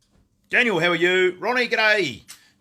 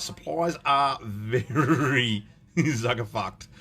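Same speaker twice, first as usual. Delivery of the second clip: laughing; much slower than usual. Real, not acted. Laughing through a joke.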